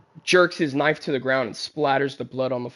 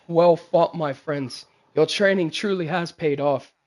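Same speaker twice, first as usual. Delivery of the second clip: King Teja. Acted. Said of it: "so King Teja stands up and he goes".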